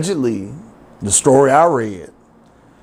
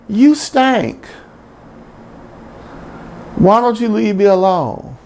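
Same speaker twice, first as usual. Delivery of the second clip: dog voice; 7 semitones higher than usual. Retold or imitated. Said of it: "In a way".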